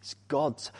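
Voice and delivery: soft, weighty emphasis on "God's"; stress on GOD'S. Shown as a demonstration. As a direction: let "God's" land quietly but firmly. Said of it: "put the emphasis on the word God's".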